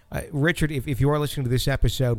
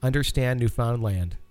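Wisconsin accent. Shown as a demonstration. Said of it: "it's a harsh Wisconsin A".

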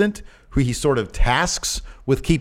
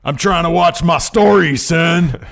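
raised gruff redneck bark; hard aggressive working-class bark; 7 semitones higher, 6 dB louder, slower than usual. Pretend. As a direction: bark it like a grumpy couch brawler. Stone Cold in a muumuu.

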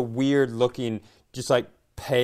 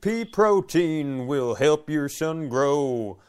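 country singer bit; slower than usual. Pretend. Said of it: "Skeet McGraw performing his new hit single".

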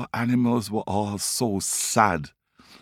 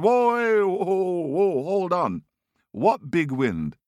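alarmed call; 9 semitones higher, slower than usual. Acted. Tiger calling after the fleeing Rabbit, high and alarmed. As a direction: call him back in alarm.

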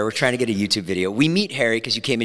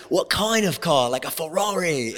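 put-on English accent; 4 semitones higher than usual. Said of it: "I'm doing an English accent".

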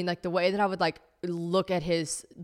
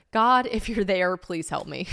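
pleading prayer; 4 dB louder, slower than usual. Acted. Reading an old heartbroken journal, slow pleading. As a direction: draw out a heartfelt appeal to God.

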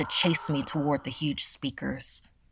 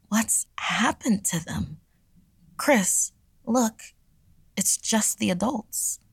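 urgent, higher-pitched alarm; 6 semitones higher than usual. Acted. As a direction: call out in hushed alarm, pitched up. Frightened teen quoted amid the chaos.

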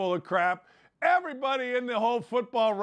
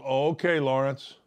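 resigned coach; 7 semitones lower than usual. Retold or imitated.

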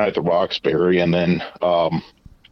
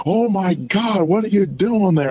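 high mock girl voice; imitating the girl, pitched way up; girl's voice; 13 semitones higher than usual. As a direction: voice her surprise up high. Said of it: "He's like".

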